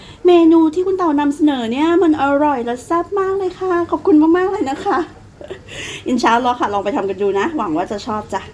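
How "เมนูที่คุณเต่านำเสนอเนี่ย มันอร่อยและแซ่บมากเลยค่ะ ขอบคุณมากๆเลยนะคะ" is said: high-pitched pretend fan gushing thanks; gushing viewer. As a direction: play a delighted viewer, pitched well up. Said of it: "แล้วจะต้องกลับมาบอกคุณเต่าว่า". (แกล้งเป็นคนดูชมเปาะเสียงสูง)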